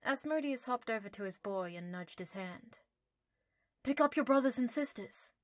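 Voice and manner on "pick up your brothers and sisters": a hint of a higher, louder owl voice. Owl nudging his boy, lightly voiced.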